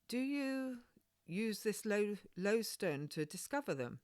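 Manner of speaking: put-on high, curious little girl; a wide-eyed child asking; lightly voiced girl full of wonder; young girl voice. Child Maggie asks about the stone.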